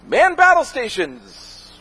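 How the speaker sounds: slow, high, hammed-up command; hammed-up slow order; mock battle command. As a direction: call it out like a mock captain. DVD voiced as ship crew.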